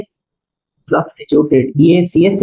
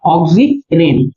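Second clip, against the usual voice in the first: low and drawn out; slow dictation; 6 semitones lower, much slower than usual. Real, not acted. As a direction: give the name slowly for note-takers. Dictating the compound's name. (धीमी, नीची आवाज़ में लिखवाते हुए)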